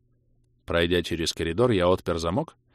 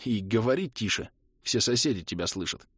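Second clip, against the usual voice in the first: subdued, softer voice; hushing request; 5 dB quieter than usual. Acted. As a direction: keep it down, strained. Squeezed hero hushing loud friend.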